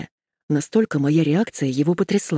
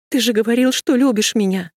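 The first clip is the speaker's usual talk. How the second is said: a mild sobbing outburst, higher; sobbing reproach; 6 semitones higher than usual. Acted. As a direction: cry it out at him. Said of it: "всхлипнула Машка".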